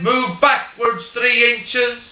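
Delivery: an Irishman coaxing his spider, in an easy Irish brogue; Irish accent. Retold or imitated. Paddy Irishman ordering the spider about, in a mock Irish accent. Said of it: "I'll do it in an Irish accent".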